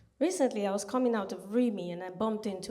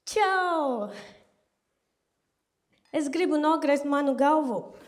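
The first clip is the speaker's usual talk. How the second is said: loud Latvian request; 3 semitones higher, 6 dB louder, slower than usual. Retold or imitated. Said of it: "And I'm like".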